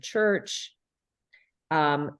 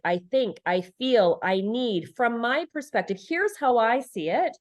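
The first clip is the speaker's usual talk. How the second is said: calm assertive demo; 4 semitones higher than usual. Shown as a demonstration. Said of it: "I assert myself using key language like".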